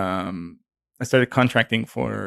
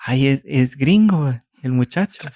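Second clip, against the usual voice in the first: aunt's voice; 3 semitones higher, 3 dB louder than usual. Retold or imitated. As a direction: playfully voice the old aunt. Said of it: "one of the tias is like".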